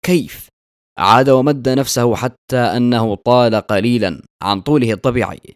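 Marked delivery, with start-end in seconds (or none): 0.1-0.5 astonished. A narrator's reading. Narrator answering the devil who calls him a nuisance, astonished. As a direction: ask it in puzzled surprise. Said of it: "رددت باندهاش".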